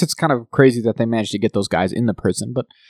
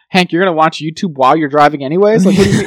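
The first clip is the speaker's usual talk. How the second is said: incredulous scolding; 4 semitones higher, 6 dB louder than usual. Retold or imitated. Mock-scolding Hank over podcast.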